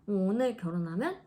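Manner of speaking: lightly voiced doctor, calm and matter-of-fact; mild imitation of a doctor delivering bad news; quoting the doctor. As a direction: replay the doctor's flat diagnosis with a touch of mockery. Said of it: "그러셔서".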